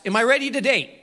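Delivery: mock question. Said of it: "when you ask".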